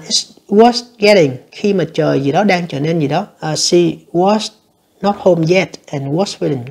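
slow, careful reading of the test sentence; slow dictation read. Shown as a demonstration. Teacher reading an exam sentence to learners, slow and careful. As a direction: read it out slowly for students.

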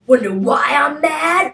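slow, rising angry question; anger starting to build, words drawn out; mock mad.

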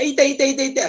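ow, ow, ow in sudden pain; mock pain cry. Shown as a demonstration. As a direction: yelp as if hurt. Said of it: "kalau sakit, dia akan sebut".

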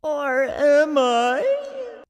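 slow, high Smeagol tease; Gollum voice. Pretend. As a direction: drag it out like Smeagol. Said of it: "best Gollum impressionist".

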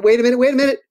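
blurting it out as the idea lands; excited realization. Real, not acted. Author suddenly remembers a book for Julian, excited. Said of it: "I got one".

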